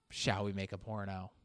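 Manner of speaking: low, hushed Shall we make a porno; a sultry low whisper-like read; low, soft take. Pretend. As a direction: drop down and say it softly. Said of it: "imagine that being marketed".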